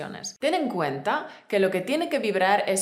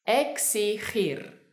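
"Exigir" drawn out very slowly, syllable by syllable; slow demonstration; much slower than usual. Shown as a demonstration. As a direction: stretch each syllable of "Exigir" for a learner.

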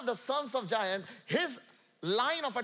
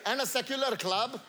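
raised preaching shout; 4 semitones higher than usual. Real, not acted. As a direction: belt it to the hall.

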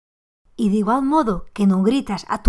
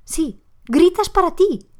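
imitando al hijo; 7 semitones higher, 4 dB louder than usual. Retold or imitated. Hijo le reprocha a la madre.

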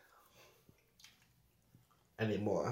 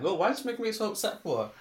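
retold frustrated question; 10 semitones higher, 10 dB louder than usual. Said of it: "I'm like".

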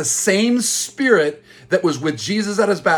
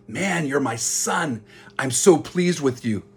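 soft, slow and loving, much quieter; tender father; 4 dB quieter than usual. Retold or imitated. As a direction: speak as a gentle father blessing his son.

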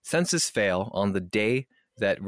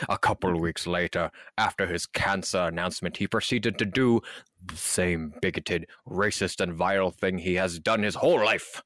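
mock professional statement. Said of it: "Yes, professional".

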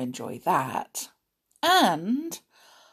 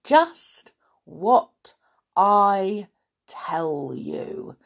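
sly snowman, hushed and slow; grinning snowman whisper; much slower than usual. Acted. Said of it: "said the snowman with a grin".

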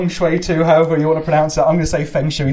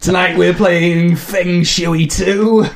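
laughing; much slower than usual. Real, not acted. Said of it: "laughing through intro".

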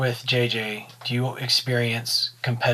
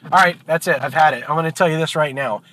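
fed-up bartender; 3 semitones higher than usual. Acted. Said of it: "The bartender goes".

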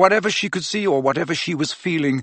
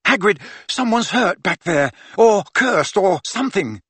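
urgent interruption; 6 semitones higher than usual. A narrator's reading. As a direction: cut in with alarming news. Harry urgently interrupts with bad news.

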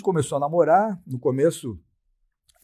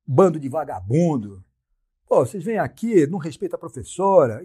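scolding; 3 semitones higher, 4 dB louder than usual. Retold or imitated. Scolding the students.

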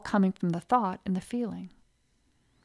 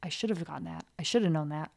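second guessing; 4 semitones lower, 7 dB quieter than usual. Retold or imitated. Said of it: "second guess yourself".

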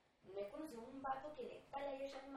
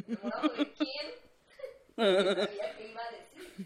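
louder question then laughing; mock shocked question; 2 semitones lower, 12 dB louder than usual. Friend retelling her reaction to the crush, laughing. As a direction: ask it with mock alarm.

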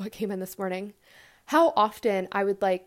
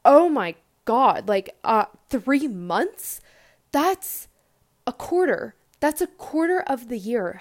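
reliving the shock of the diagnosis, voice rising. Retold or imitated. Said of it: "I just was shocked".

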